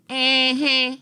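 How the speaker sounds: mm-hmm pitched high and incredulous; disbelieving mm-hmm. Shown as a demonstration. The speaker showing an incredulous mm-hmm to someone lying. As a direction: call out a lie with mm-hmm. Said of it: "better known as Negro Please".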